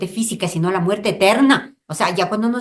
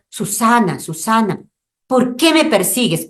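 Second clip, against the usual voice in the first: the Lord calling; 4 semitones higher, 4 dB louder than usual. Acted. The Lord's voice calling Susana.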